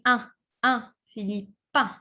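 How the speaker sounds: "un" held as a nasal vowel through the nose; drilling the nasal un. Shown as a demonstration. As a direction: practice "un" nasally, then "Philippin". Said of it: "it comes from the nose here".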